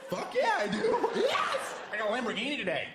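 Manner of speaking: hammed-up wild excitement; mock ecstatic. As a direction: scream with joy at the free car. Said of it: "I'm like".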